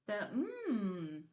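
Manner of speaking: a held humming mm; isolated m sound. Shown as a demonstration. Teacher isolating the first sound of mat, a held mm. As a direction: hum the mm on its own. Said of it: "Which part did you clip off".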